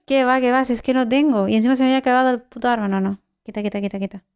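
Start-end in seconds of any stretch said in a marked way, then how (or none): 0.1-2.9 higher, rushed protest, words tumbling out; flustered panic. Real, not acted. Gamer fleeing with no weapon, flustered panic. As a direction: panic and speed up as you go. Flees enemies without a weapon.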